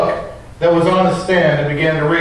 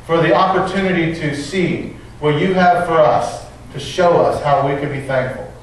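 prayer. Acted. Pastor praying for the congregation before the sermon, earnest. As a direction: pray humbly over the congregation.

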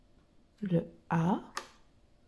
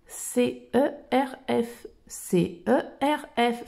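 slow spelling; 4 dB quieter, slower than usual. Shown as a demonstration. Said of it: "Le C, le E".

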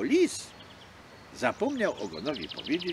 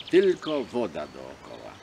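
plain reading voice

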